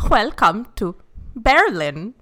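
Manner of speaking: put-on slow, German-accented "Welcome to Berlin"; mock German accent. Imitating the film's Germans greeting in a German accent. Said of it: "They'd be like".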